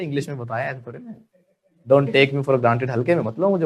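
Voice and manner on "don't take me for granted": Don't take me for granted said very slowly; slow teacher demo; slow model sentence. Shown as a demonstration. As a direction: spell it out slowly for the class. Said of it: "बोलो".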